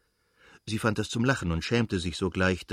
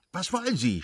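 cried out; 9 semitones higher than usual. A narrator's reading. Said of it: "schrie sie".

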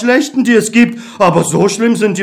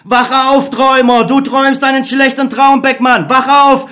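higher, urgent inner voice; optimistic Other; 5 semitones higher than usual. Acted. The Other urging Beckmann to trust people. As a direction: coax him to believe.

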